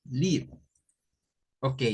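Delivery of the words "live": "live" pronounced liv, short vowel; short i sound. Shown as a demonstration. Teacher concluding the verb's pronunciation, "live" as liv. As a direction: model "live" as the verb, rhyming with give. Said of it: "la pronunciación es así".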